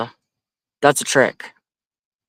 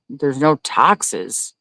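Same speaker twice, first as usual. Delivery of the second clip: slow disbelief; much slower than usual. Real, not acted. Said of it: "Wait a minute".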